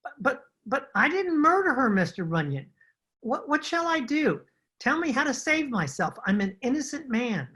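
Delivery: frightened suspect begging the detective for help; panicked pleading. Acted. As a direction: beg to be saved, scared stiff. Suspect begs detective, fearing murder rap.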